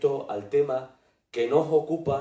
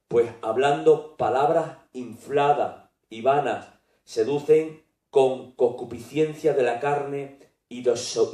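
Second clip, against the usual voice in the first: emphatic, measured Bible reading; scripture reading; 4 dB louder than usual. Acted. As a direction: read it out firmly, phrase by phrase. Reads scripture aloud. (lectura bíblica firme y enfática)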